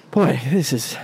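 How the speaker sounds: winded from running; slightly breathless talking; out of breath. Real, not acted. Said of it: "sorry, I'm a little out of breath".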